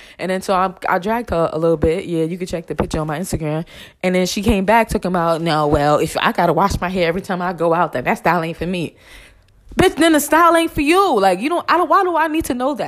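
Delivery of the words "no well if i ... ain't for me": usual speaking voice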